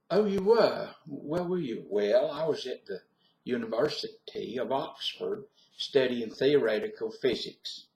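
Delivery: Southern dialogue voice; Southern US accent. Shown as a demonstration. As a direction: play both turns with a Southern twang. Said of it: "so that's my southern accent".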